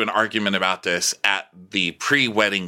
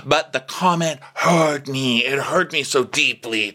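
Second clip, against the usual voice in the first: high hurt mock voice; 6 semitones higher than usual. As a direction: plead it high and wounded. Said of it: "So she's like".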